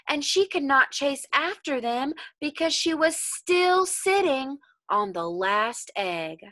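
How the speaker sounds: put-on slow, expressive read-aloud for children; storybook reading voice, drawn out on the counting; story narration. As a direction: paint the folk tale for little listeners, savoring each line. Teacher reads the story aloud.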